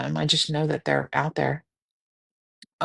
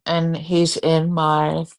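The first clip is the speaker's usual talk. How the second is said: slow words through a yawn; much slower than usual. Real, not acted. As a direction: talk while yawning. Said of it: "I can't stop yawning".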